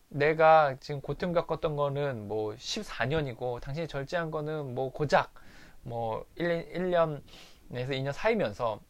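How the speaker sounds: mild mock of a screaming wife; retold furious rant. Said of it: "고래고래 소리를 지르면서 막 울면서".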